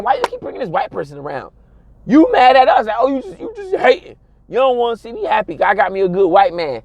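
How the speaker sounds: a light, quick, whiny defence; mock defensive friend. Friend defending her white man, quick whiny voice. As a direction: whine back at the friends' question.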